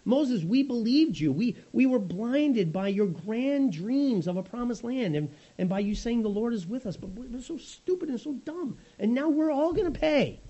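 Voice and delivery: sulky crowd moaning at Moses; mock-despairing, self-pitying whine; whiny grumbling Israelites. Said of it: "and they say".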